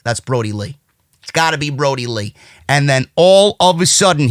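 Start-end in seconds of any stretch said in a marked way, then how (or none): 0.0-2.3 low, soft murmur to oneself; hushed realisation. Retold or imitated. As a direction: say it low and quiet, as if privately convinced. Acting out his growing certainty.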